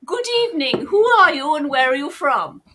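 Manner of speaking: hammed-up good evening; mock formal host. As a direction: announce it like a stage host. Formal hosting bit after posh.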